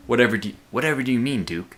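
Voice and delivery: lightly put-on game character voice; a hint of an unplaceable accent for another character; different character voice. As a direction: voice him a little apart from yourself. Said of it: "give other people a different voice".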